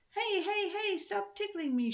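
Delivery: high, laughing shriek. A narrator's reading. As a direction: squeal as if being tickled. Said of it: "shrieked Pippi".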